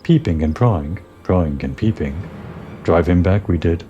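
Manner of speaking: Ixal birdman. Acted. Ixal reporting the airship attack, lightly voiced bird creature. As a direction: chatter it out like a bird tribesman.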